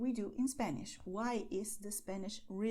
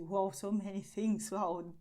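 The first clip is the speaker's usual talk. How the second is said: surprised learner; 3 semitones lower, 5 dB louder than usual. Retold or imitated. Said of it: "you will see".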